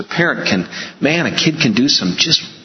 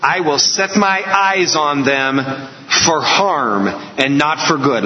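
slow, weighty quote from God; measured, solemn pronouncement; dramatic scripture reading; slower than usual. Retold or imitated. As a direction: read it out slowly and gravely. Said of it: "these very dramatic words".

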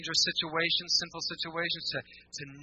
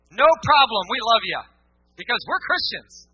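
much higher, louder sugary acceptance; hammed-up fake welcome; mock gushing; 6 semitones higher, 11 dB louder than usual. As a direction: chirp it like a phony greeter. Mocking shallow acceptance.

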